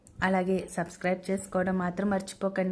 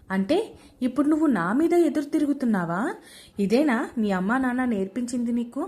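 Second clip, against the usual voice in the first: indignant scolding; 3 dB louder than usual. Acted. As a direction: snap back at the bride's cheek. Mother-in-law confronts daughter-in-law.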